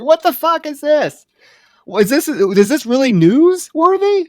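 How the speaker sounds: high-pitched, disbelieving question; can't believe this is on the news; incredulous outburst. Acted. Acting out disbelief at the broadcast.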